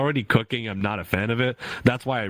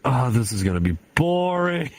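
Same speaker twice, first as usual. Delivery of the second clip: mock boredom; 2 semitones higher than usual. Artist eyes a dull commission, mock bored dread. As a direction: groan lightly at a dull job.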